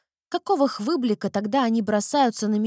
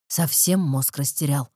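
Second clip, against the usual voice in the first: angry roar; 7 semitones lower than usual. A narrator's reading. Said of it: "взревел Эрик".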